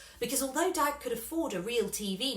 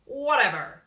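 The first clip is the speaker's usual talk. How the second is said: put-on loud, pushy hustler calling a kid over; a slick manager leaning in with a sales pitch; brash showbiz manager; 2 semitones higher, 9 dB louder than usual. A narrator's reading. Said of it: "said the man".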